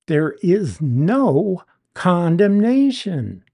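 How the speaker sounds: slow, weighty stress on "no"; slow and emphatic, "no" held and set apart. Shown as a demonstration. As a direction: draw out "no", then land firmly on "condemnation". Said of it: "very emphatic".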